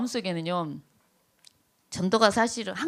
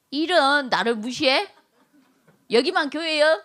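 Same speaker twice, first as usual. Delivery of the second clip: mock indignation; 4 semitones higher than usual. Acts offended member whose opinion was ignored.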